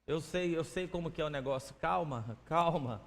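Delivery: put-on calm a panicking girl gently; soothing calm. The speaker soothing a worried girl, soft and quiet.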